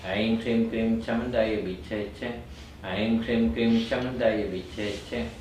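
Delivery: brisker, even chant on a steady note. Shown as a demonstration. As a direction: run the mantra's syllables together. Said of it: "Then I go more quickly".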